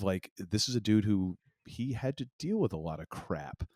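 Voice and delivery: ordinary delivery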